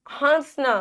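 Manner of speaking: हंसना with vowel through mouth and nose; हंसना with no full न after हं; nasalised vowel. Shown as a demonstration. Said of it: "अंदर और नाक दोनों से".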